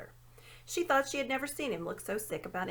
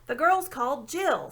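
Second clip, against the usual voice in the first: louder, slow owl calling into a deaf ear; owl hooting loudly; 5 semitones higher, 8 dB louder than usual. A narrator's reading. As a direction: hoot it loud and slow so the dwarf hears. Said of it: "as loud as it could".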